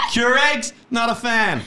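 high, pushed punchline delivery; hammed-up observational comic bit; mock stand-up comic. Co-host parodying her coffee-machine joke, high pushed comic voice.

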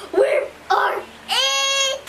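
high excited yell; high thrilled cry of we are it; excited shout. Real, not acted. Announces being it.

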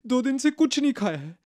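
pleading. Acted. Beggar pleading with passerby.

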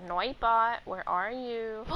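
usual speaking voice

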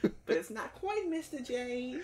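high Brooklyn Harley Quinn voice; man doing Harley's Brooklyn accent. Pretend. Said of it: "a man doing a Brooklyn accent of Harley Quinn".

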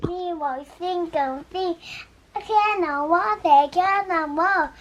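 gibberish English singing; fake English. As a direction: sing nonsense that sounds English. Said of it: "가짜 영어로도 해요". (가짜 영어로 노래)

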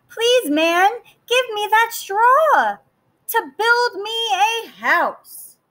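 high, sweet piglet voice; little pig voice. Acted. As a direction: ask politely like a small pig. Pig asks the straw man.

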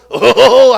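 loud imitated throat-clearing chuckle; mock dry cough. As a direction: put on a hollow warning "ahem". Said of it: "헛기침 한번".

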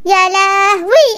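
drawn-out wailing ya lahwi; dismay. Acted. Mother wails at the power cut, dismayed. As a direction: stretch out "يا لهوي" in comic despair.

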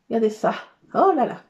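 ordinary talk, nothing marked

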